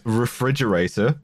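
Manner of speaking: sarcastic air quotes on refrigerator. Shown as a demonstration. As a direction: say it like it's in quotes. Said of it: "I put this in air quotes".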